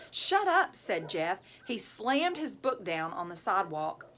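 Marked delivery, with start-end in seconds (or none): 0.1-0.8 higher, louder angry outburst. A narrator's reading. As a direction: yell it in fury. Jeff furious at taunting.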